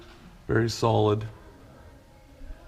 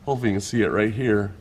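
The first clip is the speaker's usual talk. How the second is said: phone in mouth; 3 dB louder, faster than usual. Real, not acted. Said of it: "as I put the phone in my mouth".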